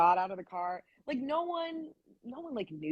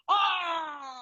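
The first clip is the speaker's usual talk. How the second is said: mock crowd scream; 9 semitones higher than usual. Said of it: "everyone just goes".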